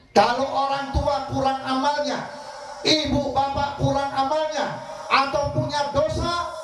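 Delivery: high and slow, each phrase weighed; slow fervent preaching. Acted. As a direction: draw it out high like a solemn warning. Slow emphatic warning to parents. (ceramah lambat dan tinggi, penuh penekanan)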